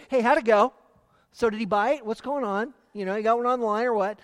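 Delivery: mock-casual how'd it go; breezy casual question. Shown as a demonstration. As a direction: toss it off like idle gossip. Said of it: "than just saying".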